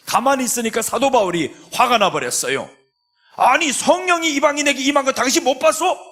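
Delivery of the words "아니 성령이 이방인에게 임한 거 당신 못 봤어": high-pitched indignant outburst; Paul angrily confronting Peter, high and indignant; angry retort. Acted. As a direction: snap at him in disbelief. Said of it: "막 화를 내는 겁니다".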